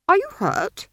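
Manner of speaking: timid wizard concerned; anxious old wizard. Acted. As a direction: fuss over her. Wizard voiced in story.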